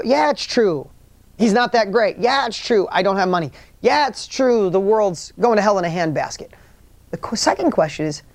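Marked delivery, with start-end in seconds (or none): 0.0-6.5 lightly acted doubter, pitched up on each yes; knee-jerk agreement. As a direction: act out an automatic, insistent yes. Acting out first knee-jerk answer.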